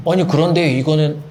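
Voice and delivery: lightly voiced dim-witted objector; 멍청한 사람 흉내. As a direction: put on a mild dull-witted voice. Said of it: "멍청한 사람 표정 연기하는 겁니다". (살짝 멍청한 사람 흉내 내는 말투)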